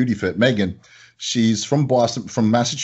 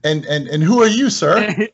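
curious customer; 7 semitones higher, 4 dB louder than usual. Retold or imitated. Voicing customer.

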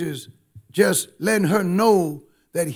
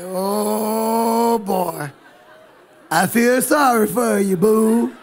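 imitating an uncaring man's hollow pity; drawn-out, put-on commiseration; mock sympathy; much slower than usual. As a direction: play at feeling sorry for someone. Voicing an uncaring man's reply.

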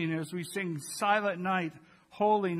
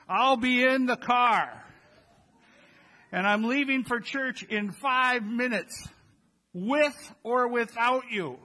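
raised, impatient call from the door; 5 semitones higher, 4 dB louder than usual. Retold or imitated. Parent calling from the door to the late family, impatient. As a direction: hurry everyone along, fed up.

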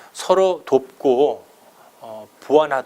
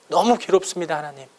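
anguished prayer; 2 semitones higher than usual. Retold or imitated. Preacher voices a suffering leader's prayer, mildly anguished pleading. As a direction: plead wearily with God, mildly. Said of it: "이렇게 기도했다는 거예요".

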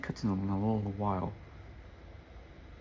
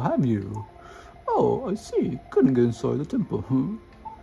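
hammed-up old professor; 3 semitones higher, 4 dB louder than usual. Gamer voicing the professor's cutscene lines to Sonic, hammed up. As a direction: play the excitable old professor briefing his boy. Reads the professor's dialogue aloud.

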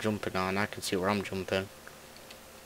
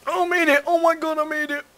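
high, loud relieved cry; relieved laughter; 6 dB louder than usual. Real, not acted. Finally makes the hard jump.

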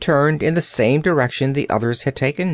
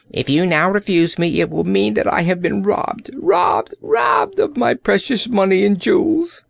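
building to a high-pitched wail; angry exclamation; 8 semitones higher than usual. A narrator's reading. Old courtier cheated of his jewels, angry outburst. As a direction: climb higher and higher in outrage. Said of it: "he exclaimed angrily".

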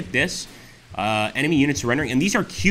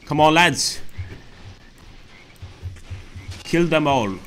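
commander shout; 5 semitones higher, slower than usual. Pretend. Voicing commander urging troops.

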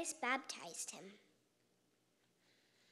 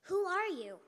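louder, higher startled question; raised, high storybook outcry; crying out; 6 semitones higher, 8 dB louder than usual. A narrator's reading. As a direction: cry it out to an unseen voice. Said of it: "He cried out".

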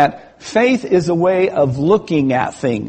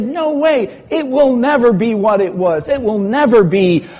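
mock despair over a wrecked car; high distraught protest; 4 semitones higher than usual. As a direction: insist the car is ruined forever, way up high. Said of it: "And he said".

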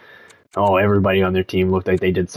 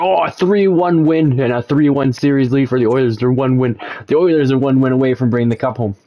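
excited; 4 semitones higher than usual. Real, not acted. Oilers one win from the cup.

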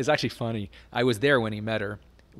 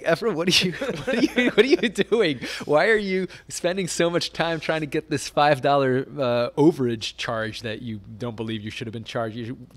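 retold exasperated outburst, raised and louder; exasperated telling-off; 4 semitones higher, 7 dB louder than usual. Friend scolds Efren over five-dollar phone charge, exasperated. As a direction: imitate yourself pleading for some sense. Telling off his business partner.

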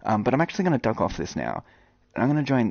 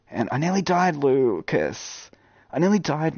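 higher, lively retelling of a close call; excited retelling; 4 semitones higher, slower than usual. Retold or imitated. Gamer telling viewer Lucas about a near-death escape, excited. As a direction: sell the near-death moment.

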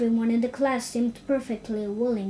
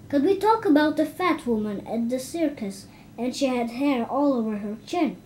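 begging; 3 dB louder than usual. Acted. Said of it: "begged Isidore".

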